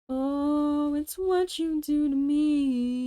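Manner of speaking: high, loud hammed-up Muppet singing. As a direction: belt it like a puppet character. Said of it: "I can't do the Muppets!".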